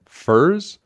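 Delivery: very high rising question; astonished cry. A narrator's reading. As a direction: blurt it out in total disbelief. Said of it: "he cried out".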